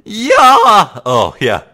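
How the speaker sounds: high, loud drawn-out yell; excited shout. Acted. Shouting to set off the sound-triggered camera, loud yell. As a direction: holler it out, high and long.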